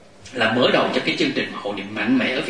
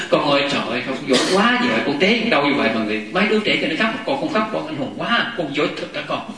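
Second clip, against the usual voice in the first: lightly voiced mother cheering up a child; praising mother. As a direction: coax a fallen child with lively praise. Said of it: "Mẹ khen con dữ lắm". (giả giọng mẹ khen dỗ con)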